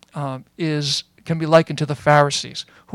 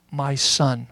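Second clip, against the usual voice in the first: softer and lower, a father's tender reply; gently; 4 semitones lower, 8 dB quieter than usual. Retold or imitated. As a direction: say it softly, full of forgiveness. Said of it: "looks back and says gently".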